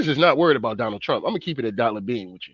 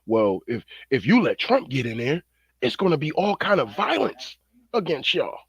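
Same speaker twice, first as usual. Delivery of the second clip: mock campaign pitch. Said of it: "besides saying".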